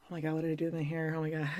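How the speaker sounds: flustered panic. Retold or imitated. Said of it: "And I'd be like".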